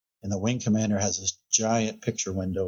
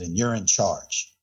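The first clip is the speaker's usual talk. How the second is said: stern general; slower than usual. Retold or imitated. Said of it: "in the most sternest of voice".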